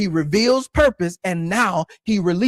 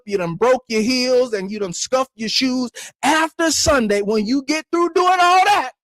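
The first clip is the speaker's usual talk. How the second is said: building preacher fervor; 3 semitones higher than usual. Real, not acted. Preacher to congregation recalling Sunday's wild worship, building fervor. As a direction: pitch climbing steadily to a high peak.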